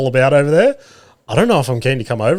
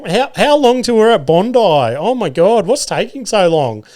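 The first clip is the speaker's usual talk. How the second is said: put-on high, whining boys in the back seat; whiny kids; 7 semitones higher than usual. Dad mimics impatient boys in the back, high whine.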